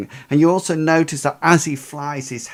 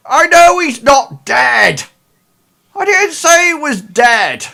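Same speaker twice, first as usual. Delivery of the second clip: much higher, much louder snapping woman's voice; exasperated Ida; 13 semitones higher, 13 dB louder than usual. Acted. Ida shouting back at Studley, an exasperated high snap.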